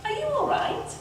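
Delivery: high, soft fairy voice; high-pitched, concerned fairy; fairy's concern. A narrator's reading. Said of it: "She said".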